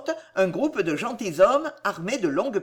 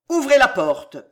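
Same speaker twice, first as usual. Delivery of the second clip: loud, raised order; marshal's forceful command; 5 semitones higher, 7 dB louder than usual. A narrator's reading. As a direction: give a firm order that carries. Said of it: "commanda le maréchal".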